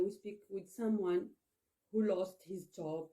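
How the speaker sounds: ordinary talk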